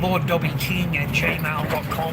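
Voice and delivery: each part of the address spelled out slowly; slow it down so viewers can copy it; slow dictation. Real, not acted. Reading his email out to viewers, slow and deliberate.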